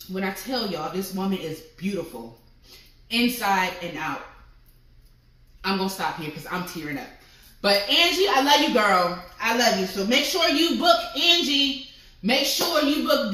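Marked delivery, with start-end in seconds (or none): 0.1-7.1 real tears held back, voice sinking quiet; softer, choked up with emotion; overcome, trailing into tears; tearful. Real, not acted. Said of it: "I'm about to cry".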